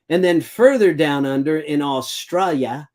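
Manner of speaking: a hint of a bad Australian accent on "Australia"; self-mocking Australian accent. Shown as a demonstration. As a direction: lightly put on an Aussie accent, knowing it's terrible. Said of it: "has me Australian accent".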